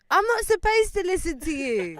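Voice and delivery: high, loud, slow mock indignation; defiant retort. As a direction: push back hard, spelling it out slowly. Retold retort in quarrel.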